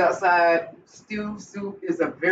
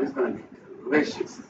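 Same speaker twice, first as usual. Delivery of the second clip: a breathy whispered delicious; 5 semitones lower, 5 dB quieter than usual. Real, not acted. Cook admiring her plate for viewers, whispered. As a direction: breathe the word to the camera. Hushed remark on the food.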